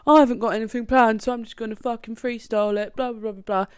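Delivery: mocking a cocky man, rattled off fast; cocky, arrogant. Retelling an amateur comic's boast on stage, mock cocky. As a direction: rush it with mock swagger. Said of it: "so fucking cocky and arrogant".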